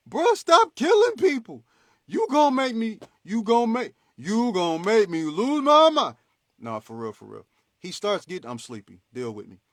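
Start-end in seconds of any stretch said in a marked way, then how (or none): 0.1-6.2 hero losing it, shouting up in the rafters; frantic Superman yell. Retold or imitated. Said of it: "and he like".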